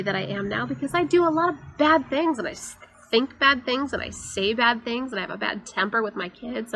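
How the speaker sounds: half-acted how-dare-you protest; retold indignation. Retelling her silent reaction to a friend's kind words, mildly indignant. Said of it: "like, almost mad".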